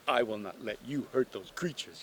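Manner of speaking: duck's lightly mimicked firm refusal; imitating the girl. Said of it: "you were like this".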